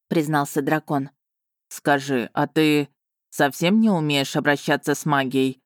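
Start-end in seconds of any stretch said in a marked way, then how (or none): 1.7-5.6 low, careful questioning; cautious. A narrator's reading. Dragon probes the heroine about magic, cautiously. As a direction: tread lightly with the question. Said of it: "осторожно поинтересовался Варган".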